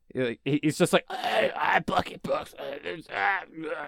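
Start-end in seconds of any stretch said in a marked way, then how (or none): 1.1-3.8 faltering, rough, creaky voice sounding near death. Describing a substitute draft host: imitating Bucky Brooks sounding like he's dying. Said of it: "he sounds like he's dying".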